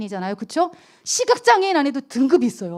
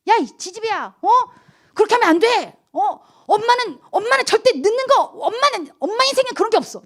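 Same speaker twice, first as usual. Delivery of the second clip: put-on high, scolding mother snapping at her child; mock scolding mother; 9 semitones higher than usual. Pastor replaying scolding her young daughter, high and sharp. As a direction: scold the little girl, voice up high.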